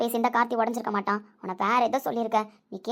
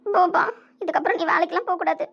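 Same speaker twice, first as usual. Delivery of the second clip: tearful plea; 7 semitones higher, 5 dB louder than usual. Acted. Tearful daughter pleads with father.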